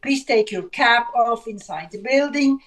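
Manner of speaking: usual speaking voice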